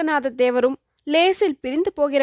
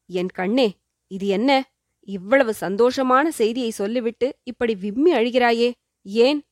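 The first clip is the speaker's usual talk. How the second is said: tender, consoling. Acted. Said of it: "பரிவான குரலில் சொன்னார்". (மென்மையான பரிவான குரல்)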